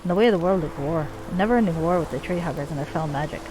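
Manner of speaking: put-on lightly done Scottish accent for a dwarf leader; bad Scottish accent. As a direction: play the dwarven chief with a rough-and-ready Scottish accent. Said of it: "my really bad Scottish accent".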